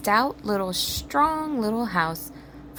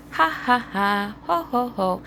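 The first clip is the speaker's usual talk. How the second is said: voiced mock laughter; teasing laugh in a put-on voice; 3 semitones higher than usual. A narrator's reading. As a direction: pigs laughing off the warning. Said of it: "laughed the two little pigs again".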